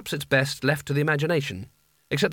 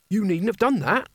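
muttered; 7 semitones higher than usual. A narrator's reading. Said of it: "muttered Nigel".

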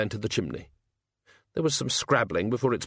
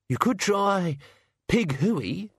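higher, chirpy sidekick; cheerful servant voice; 8 semitones higher, much slower than usual. Acted. The sacks cheering up the Hogfather, chirpy. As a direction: bluff encouragement for the master.

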